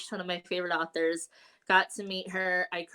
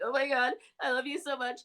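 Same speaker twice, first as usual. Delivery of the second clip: higher-pitched mock gushing; retold blubbering; 5 semitones higher than usual. Fan retelling how she met her favourite author, mock blubbering. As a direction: blubber it a little, played for the story. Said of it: "like, blubbering".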